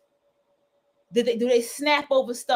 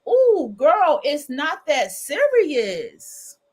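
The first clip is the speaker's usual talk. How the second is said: brushing it off; 4 semitones higher, 3 dB louder, much slower than usual. Retold or imitated. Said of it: "And you just be like".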